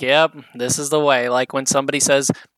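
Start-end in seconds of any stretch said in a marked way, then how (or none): 0.0-1.3 mocking, humoring, sarcastic put-on agreeable tone. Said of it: "you can tell she's like".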